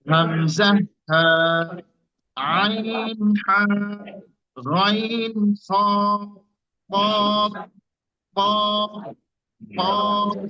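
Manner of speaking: slow letter-by-letter drill with long pauses; Arabic makhraj letter drill. Shown as a demonstration. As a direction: model each Arabic letter from its point. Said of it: "জায়গাতে স্থানে লাগিয়ে উচ্চারণটা করবেন".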